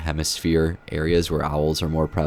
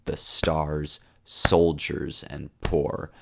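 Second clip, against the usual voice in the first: slow, quiet recitation fading at the end; soft, slow reading of closing verse; poem reading; 3 dB quieter, slower than usual. Acted. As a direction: draw the lines out and let them sink.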